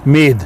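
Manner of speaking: मेद with a long held ee vowel; long Swedish e. Shown as a demonstration. Teacher repeats Swedish med slowly for learners. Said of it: "तो long ए जो है".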